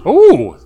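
sudden loud ooh as the mic is knocked; startled yelp, bumping the mic stand. Real, not acted. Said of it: "I just hit my mic stand".

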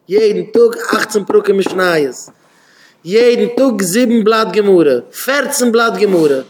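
building emphasis. Real, not acted. Preacher builds counting pages.

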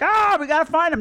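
high-pitched imitated alarm; mock panic. Imitates freaked-out family searching.

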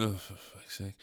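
very quiet, low aside to oneself; muttered exasperation. Acted. Man cursing privately after a polite greeting, muttered exasperation. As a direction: curse under the breath.

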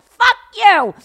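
high, loud mock yell; retold angry retort. Friend yelling back at the dog owner, angry high shout. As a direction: hurl it back at him.

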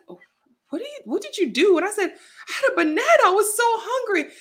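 high, giddy quoted exchange; high excited retelling. Retold or imitated. Retelling the banana story to the front desk, high and giddy.

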